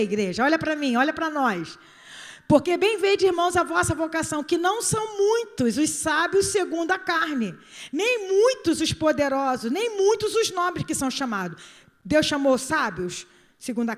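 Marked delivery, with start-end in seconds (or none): 2.5-11.6 scripture reading. Acted. Reads scripture emphatically.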